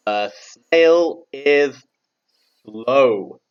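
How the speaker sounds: loud, very slow, word-by-word model; model for repetition. Shown as a demonstration. Teacher leads class in saying the sentence, loud slow model. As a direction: spell it out loudly for the class to echo. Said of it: "can you all say for me".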